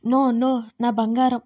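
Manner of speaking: loud, breaking cry of grief; anguished cry. A narrator's reading. Rishi realizing his beloved is gone, crying out in anguish. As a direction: cry out in disbelief.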